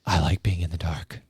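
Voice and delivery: deadpan. Retold or imitated. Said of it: "very deadpan".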